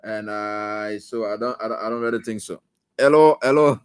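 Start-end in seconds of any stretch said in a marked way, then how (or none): 3.0-3.8 calling out hello. Real, not acted. Host calling out to caller.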